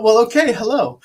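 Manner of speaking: high, loud reply breaking into laughter; amused surprise. Retold or imitated. Retold startled reply to love declaration.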